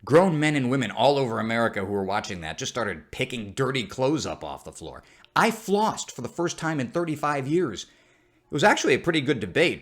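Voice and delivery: usual speaking voice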